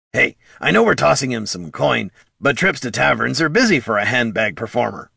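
animated kobold chatter; scrappy kobold Bert. Acted.

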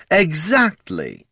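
high, slow, pleased lich voice; drawn-out lich. Acted. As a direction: stretch it out in triumph. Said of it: "said the Lich".

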